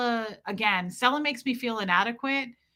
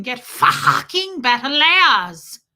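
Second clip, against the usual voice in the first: slow, loud, higher mock bark; intense coach voice; 4 semitones higher, 8 dB louder, much slower than usual. Streamer mimics an intense person's barked order, slow and loud. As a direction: drag each word out with force. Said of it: "walking around going".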